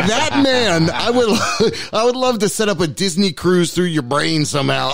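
high, laughing through the words. Retold or imitated. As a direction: gush through bursts of laughter. Quoting himself while laughing.

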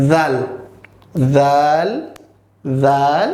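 জাল opening on a voiced th, air between the teeth; airy dental sound. Shown as a demonstration. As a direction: let breath buzz through the teeth to start জাল. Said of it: "দাঁতের মাঝখান দিয়ে বাতাস ছেড়ে দিয়ে বলবো". (দাঁতের ফাঁকে বাতাস ছেড়ে জাল)

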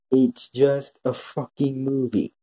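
slow, drawn-out emphasis; exasperated insistence. Real, not acted. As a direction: stretch each word out, fed up. Exasperated repeat of his main point.

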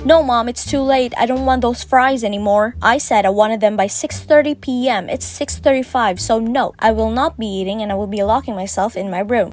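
lightly hammed-up sulky teenager talking back to mom; mock hormonal teenager. Narrator mocking the boyfriend as a teen refusing his mom's food, lightly whiny. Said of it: "He sounds like a hormonal teenager to me".

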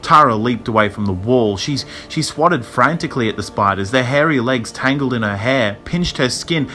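urgent, creepy storytelling; tense horror narration. A narrator's reading. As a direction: build alarm over the horror.

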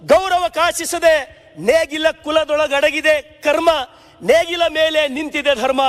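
slow, measured verse reading; slow solemn poem reading; poem recitation. Retold or imitated. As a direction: recite the lines evenly, savouring them. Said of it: "ರಾಷ್ಟ್ರಕವಿ ಕುವೆಂಪು ಅವ್ರು ಹೇಳಿದ".

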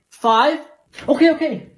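loud shouting back; yelling across the room. Acted. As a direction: call out across the house. Kid yells back.

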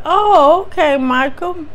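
high, cooing phone-operator voice; seductive hotline lady. Retold or imitated. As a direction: coo it like a delighted hostess. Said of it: "she's sounding real seductive and sexy".

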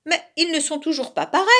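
high, quick protest; anxious, cross cry. A narrator's reading. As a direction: complain fast, mildly furious and worried. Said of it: "de plus en plus inquiets et furieux". (protestation aiguë, rapide, inquiète et fâchée)

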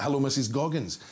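lightly voiced cartoon postman; a hint of a children's cartoon greeting; Postman Pat. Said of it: "in the voice of Postman Pat".

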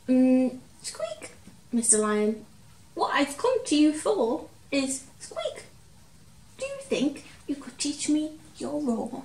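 a tiny mouse daring to wake a giant; timid little mouse. Acted. Mouse to sleeping lion, squeaky nervous high voice.

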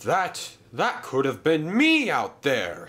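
shaken, stammered start; gasped. A narrator's reading. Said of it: "he gasped".

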